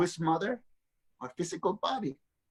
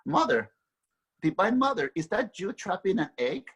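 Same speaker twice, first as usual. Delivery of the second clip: raised, higher calling to Mother; 4 semitones higher than usual. Retold or imitated. Son calling out to his trapped mother, voice raised and pleading. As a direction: call out to her across the chamber, half pleading.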